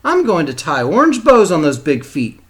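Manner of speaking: teacher calls out with a laugh. A narrator's reading. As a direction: ballet teacher teasing Sassy from the floor. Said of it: "she called out".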